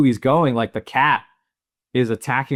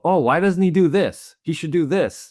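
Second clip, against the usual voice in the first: higher-pitched protest at the screen; questioning viewer; 7 semitones higher, 3 dB louder than usual. Acted. Viewer stopping the movie to question the hero, protesting. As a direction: act out puzzled second-guessing. Voicing own objections during the movie.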